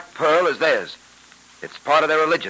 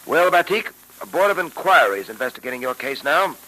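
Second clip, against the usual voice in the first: put-on old radio show. Old-time radio drama episode.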